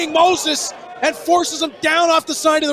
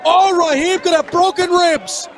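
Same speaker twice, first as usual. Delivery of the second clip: excited call; 8 semitones higher than usual. Real, not acted. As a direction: scream the big moment. High-flying move, commentator erupts.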